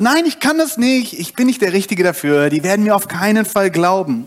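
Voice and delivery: hoch und hastig abwehren; aufgeregter Protest. Acted. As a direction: flehend sich herausreden. Mose diskutiert mit Gott. (Mose sträubt sich gegen Gott, hoch und aufgeregt)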